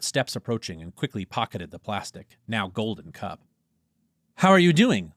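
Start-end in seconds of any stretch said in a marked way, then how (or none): 4.4-5.1 bright greeting. Acted. Dentist checks on patient.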